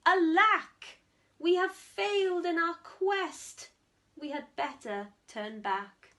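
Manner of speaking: a mild mock lament; hammed-up despair, then giving up. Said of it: "the Smed said".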